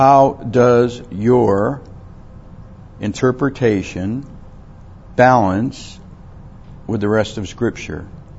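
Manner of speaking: very slow, halting, word-by-word delivery. Speaker listing questions for interpreting Scripture, saying the longest one very slowly. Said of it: "so I'll say it very slow".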